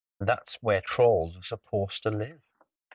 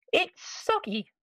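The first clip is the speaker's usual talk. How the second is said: very high, slow disgusted voice; disgusted pirate; slower than usual. Acted. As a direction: whine it with disgust. Pirate complains about pie.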